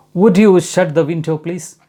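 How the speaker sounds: slow polite request. Shown as a demonstration. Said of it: "polite request".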